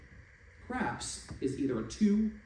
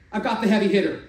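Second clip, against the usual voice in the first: snickering taunt; 5 semitones higher, 9 dB louder than usual. Acted. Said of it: "somebody snickered and said".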